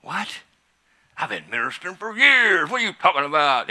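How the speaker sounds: mock-indignant what; incredulous protest. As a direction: act stunned and offended. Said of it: "And I went".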